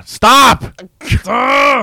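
high, loud, exasperated yell; sudden high-pitched outburst of frustration; frustrated shout. Real, not acted. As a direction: shout at yourself to quit it. Fighting off an unwanted accent.

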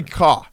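"car" with the r dropped; Boston pronunciation. Shown as a demonstration. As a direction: say "car" as "cah". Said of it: "we do say".

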